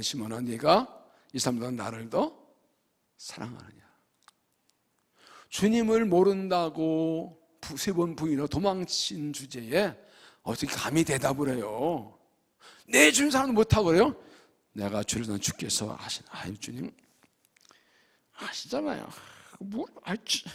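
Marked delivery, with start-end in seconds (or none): 0.0-3.8 softly, almost under the breath; quiet gentle question. Acted. Risen Jesus asking Peter about his love, quiet and gentle. 14.7-20.4 whispered, sheepish reply; ashamed whisper. Acted. Peter answering the risen Jesus, whispered in shame.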